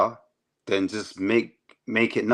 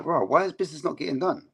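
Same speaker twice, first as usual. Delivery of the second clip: exasperated bro; 8 semitones higher, faster than usual. Retold or imitated. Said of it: "you're like".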